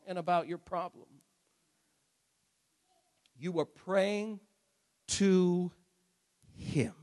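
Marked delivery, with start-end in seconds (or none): 3.4-6.9 soft, word by word with pauses; slow, solemn emphasis. Real, not acted. Preacher reminding congregation whom they pray to, slow solemn emphasis. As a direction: let each word land quietly and slowly.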